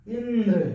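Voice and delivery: इंद्र with weight on the opening इ; teacher's demo of stressed इ in इंद्र; stress on first vowel. Shown as a demonstration. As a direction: press on the first vowel of इंद्र, then let it fall. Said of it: "इस ई पे बल दिया जा रहा है".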